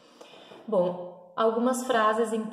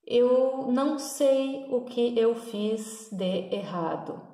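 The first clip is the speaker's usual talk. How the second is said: slow linked demo; slower than usual. Shown as a demonstration. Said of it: "A gente não faz essas pausas".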